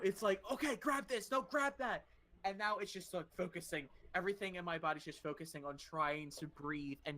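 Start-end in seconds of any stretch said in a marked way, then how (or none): 0.5-2.0 higher-pitched mock panic; acted-out frantic self-instruction; freaking-out brain. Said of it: "freaking out".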